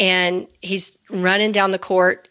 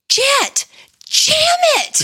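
high, loud shout from the stands; yelling at the court; 5 dB louder, much slower than usual. Retold or imitated. Mom in the stands yelling to her son mid-play, loud shout. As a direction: call it out to your son on the court. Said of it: "I stand up and I yell".

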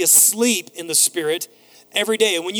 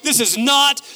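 loud, raised, slow comic protest; mock dismay; 6 semitones higher, 7 dB louder, slower than usual. Dad re-enacts his ruined surprise moment, loudly dismayed. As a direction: hammer out each phrase in exasperated disbelief.

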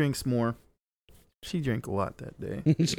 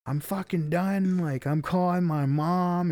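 higher, fed-up mock complaint; retold exasperation; 6 semitones higher than usual. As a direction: act out being done with it, pitched up. Retold fed-up threat in quarrel.

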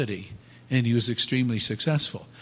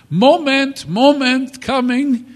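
high, loud call of the shopkeeper; calling from the back; 13 semitones higher, 10 dB louder, slower than usual. Retold or imitated. Florist calls to a customer from behind the plants, high and loud. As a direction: sing out from the back room.

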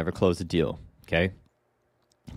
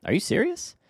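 amused disbelief, pitch leaping up; mock disbelief; 4 semitones higher than usual. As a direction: jump much higher on the second question, incredulous. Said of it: "laughing over here going".

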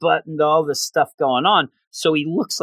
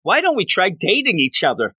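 higher-pitched, acted-out sudden proposal; blurted out; 5 semitones higher than usual. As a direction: blurt it out, imitating his impulsive question. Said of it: "And just blurts out".

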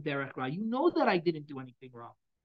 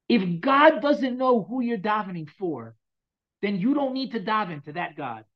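deliberate, weighty retelling of the rabbi's words; lightly voiced old rabbi, slow on the first half; imitating the rabbi's delivery; 5 semitones higher, 5 dB louder, slower than usual. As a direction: mimic how the rabbi said it, with a smile in it. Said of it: "that's how he said it".

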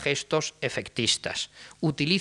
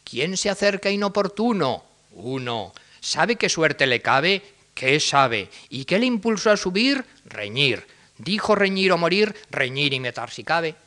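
higher, louder stagy exchange; mock-dramatic ovillejos; theatrical dialogue; 3 semitones higher, 3 dB louder than usual. Shown as a demonstration. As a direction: act the duel lines like old theatre. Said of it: "el uso teatral de los ovillejos".

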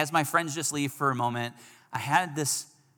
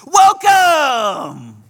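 cheery foreign greeting; 18 dB louder than usual. Retold or imitated. Tomas greets him at door.

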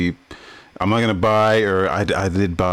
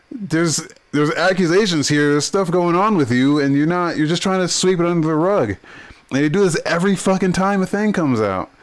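high-pitched, indignant tirade; exasperated rant; 8 semitones higher than usual. Real, not acted. Podcaster scolding the company for burying accusations, exasperated. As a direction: call them out, truly fed up.

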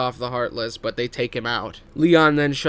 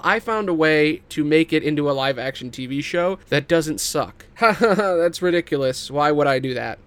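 eager movie pitch. Pretend. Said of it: "here's the movie pitch I have for you".

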